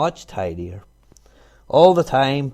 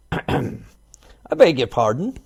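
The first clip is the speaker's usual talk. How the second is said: slow, rumbling stone-lion voice; deep growly voice; 3 semitones higher, 3 dB louder, much slower than usual. A narrator's reading. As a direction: speak slowly like a grumpy stone lion. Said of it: "in a deep, growly voice".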